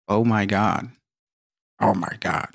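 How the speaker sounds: a hint of nasal Janice; Janice impression. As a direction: lightly imitate the nasal Oh my God. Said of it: "She's known for her obnoxious and nasally voice".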